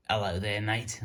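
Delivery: lightly put-on Aussie accent; a playful stab at an Australian accent. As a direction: greet like a cartoon Aussie shark. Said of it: "in my best Australian accent".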